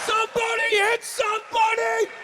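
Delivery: fired-up yelling like a player in the tunnel; hyped football shout. Pretend. Dog pumped up before the game, shouting like a player. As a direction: scream it like a linebacker before kickoff.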